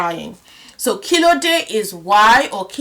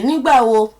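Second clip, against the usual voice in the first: excited when; 5 dB louder than usual. Shown as a demonstration. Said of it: "You just say".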